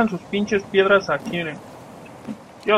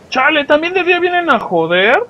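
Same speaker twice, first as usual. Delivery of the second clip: higher, louder exasperated complaint; exasperated outburst; 8 semitones higher, 6 dB louder than usual. Real, not acted. Gamer complaining to viewers about daytime attackers, exasperated. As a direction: gripe loudly at the pests.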